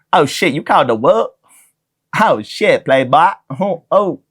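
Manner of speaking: a bad, over-the-top imitation of a movie badass; Samuel L. Jackson impression. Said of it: "the most racist Samuel L. Jackson impression".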